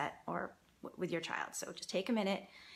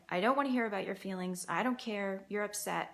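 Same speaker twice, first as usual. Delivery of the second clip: dismissive parent. Retold or imitated. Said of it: "that's basically saying".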